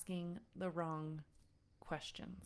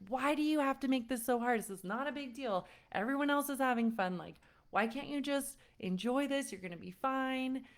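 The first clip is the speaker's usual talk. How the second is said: put-on higher, exasperated pleading at the child; frustrated scolding; 6 semitones higher than usual. Overwhelmed mom snapping at her sobbing son in the pool. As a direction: vent the overwhelm at him, fast. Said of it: "my nervous system just gets, like, overwhelmed".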